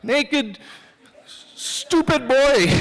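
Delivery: slow, drawn-out shouted taunt; mocking yell. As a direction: jeer from a passing truck. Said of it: "people were yelling".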